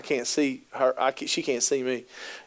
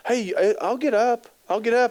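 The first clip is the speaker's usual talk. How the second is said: higher, fake-eager offer to get up; half-hearted polite offer to the spouse; mock courteous offer; 6 semitones higher than usual. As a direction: pretend you're happy to get up. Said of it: "out of courtesy, go".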